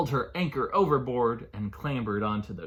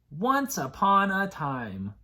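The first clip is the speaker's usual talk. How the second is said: slow sing-song; 6 semitones higher, 3 dB louder, slower than usual. Shown as a demonstration. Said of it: "Can you say those four words with me?".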